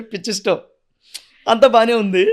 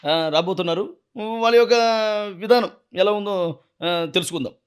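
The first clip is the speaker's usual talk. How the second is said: a lightly voiced anchor welcoming the audience; show host intro; 3 dB louder than usual. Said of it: "అందులో ఎలా మాట్లాడతారు?".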